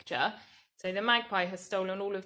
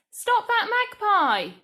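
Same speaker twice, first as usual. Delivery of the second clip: higher, louder, slower bossy shout; command; 11 semitones higher, 10 dB louder, slower than usual. Shown as a demonstration. Teacher showing a bossy command, loud. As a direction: order someone to stop the bird. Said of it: "here it says".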